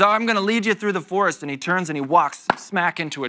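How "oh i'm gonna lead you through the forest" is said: fast, higher and louder, overconfident; cheery blind guide. Pretend. Blind guide promising to lead through forest, brisk and cheery. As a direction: sell it like a breezy tour guide.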